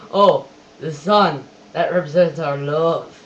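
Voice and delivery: slow, loud, overdone romantic delivery; mock cheesy movie line. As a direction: ham up a corny film line. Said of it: "That's the worst line you could ever say in a film".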